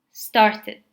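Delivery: "started" with a clear "id" ending; two syllables in "started", ending in id. Shown as a demonstration. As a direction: sound the vowel before the final D in "started". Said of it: "you pronounce it like id".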